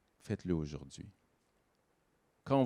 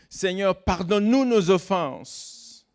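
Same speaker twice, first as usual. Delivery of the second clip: higher, slow, prayerful recitation of Seigneur, pardonne-nous nos offenses; reciting a prayer; 8 semitones higher, 4 dB louder, slower than usual. Retold or imitated. Preacher quoting the Lord's Prayer to the congregation, slow and raised. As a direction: intone the Lord's Prayer line higher and slowly. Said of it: "la fameuse prière quand on dit".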